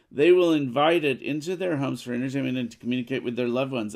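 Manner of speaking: fast, loud gloating villain; telenovela villain. Acted. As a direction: rattle off the plan like a soap villain. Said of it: "She just sounded like a telenovela villain".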